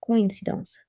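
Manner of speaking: "coincidence" in French, o and i apart, "ko-in-see-dahns"; separated vowels. Shown as a demonstration. Teacher showing the tréma's effect, split vowels in "coincidence". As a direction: keep "co" and "in" as two syllables in "coincidence". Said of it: "these two vowel sounds".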